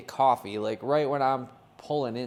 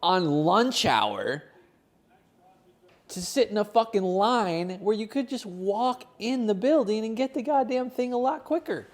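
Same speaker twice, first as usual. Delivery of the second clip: irritated thoughts; 5 semitones higher than usual. Retold or imitated. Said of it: "one of my thoughts are like".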